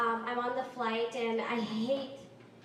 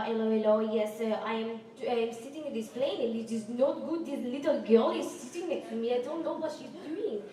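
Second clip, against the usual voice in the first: imitating a French lady on the phone; French accent; 4 dB louder than usual. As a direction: put on a light French accent. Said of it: "she's French".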